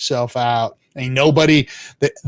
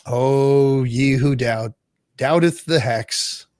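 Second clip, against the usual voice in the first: 1 mock preacher; slower than usual. Mock preacher scolding the doubters.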